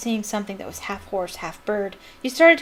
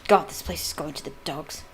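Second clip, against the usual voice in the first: loudly; 5 semitones lower, 4 dB quieter than usual. A narrator's reading. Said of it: "said Malfoy loudly".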